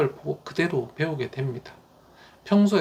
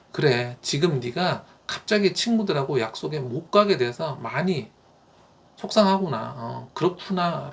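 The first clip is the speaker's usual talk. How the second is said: empathetic parent. Shown as a demonstration. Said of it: "라고 딱 먼저 짚어주는 거예요".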